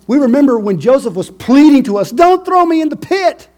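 very high, loud anguished recall; anguished brothers. Acted. Brothers recalling Joseph begging, high and anguished. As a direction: cry it out as a painful memory. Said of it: "They said".

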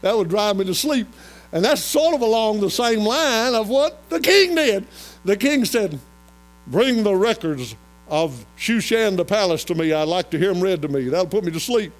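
high, loud sermon storytelling; forceful preaching. Real, not acted. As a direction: proclaim it to the congregation.

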